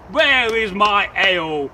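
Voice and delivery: loud, slow demand for ale; impatient husband. Acted. Impatient husband shouts down for his ale. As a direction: bellow it slowly from upstairs.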